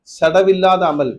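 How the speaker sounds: சடவில்லாத அமல் spoken very slowly, weight on சடவில்லாத; very slow emphasis. Shown as a demonstration. Preacher stresses the term for his listeners, very slow. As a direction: stretch out சடவில்லாத for the congregation. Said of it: "சடவில்லாத அமல் என்ன".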